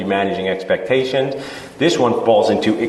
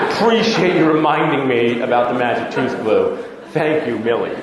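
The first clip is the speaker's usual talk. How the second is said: laughing sarcastic thanks. Retold or imitated.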